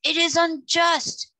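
high, slow, loud acted wail; mournful sobbing. A narrator's reading. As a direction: lament it like a hammed-up sob. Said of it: "sobbed the creature mournfully".

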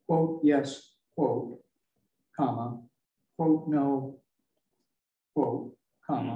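spelling out punctuation aloud; reading out each quote and comma; dictating. Shown as a demonstration. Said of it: "so it should be".

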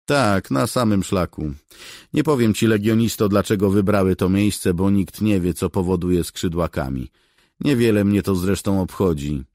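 the famous cat answers with lofty disdain; proud cat voice. Acted. Legendary cat answers the soldier, proud and dismissive.

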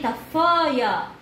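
drawn-out طفاية, each sound slow and clear; slow clear modeling. Shown as a demonstration. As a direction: spell it out slowly for a toddler. Repeats word slowly for child.

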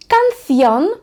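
Spanish canción; Spanish model word. Shown as a demonstration. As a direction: model каньйон clearly. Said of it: "спробуємо прочитати слова".

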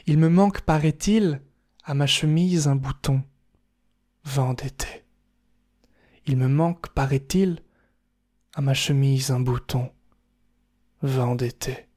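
measured poem reading, long pauses between lines; haiku recital. Acted. Recites a haiku twice, spaced out. (récitation posée de haïku, avec des silences)

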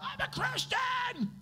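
high, slow mock cry of I'm a Christian; hammed-up high-pitched proclamation; mock scream. Preacher mocking showy believers with a high, slow mock scream. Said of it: "You don't have to scream out".

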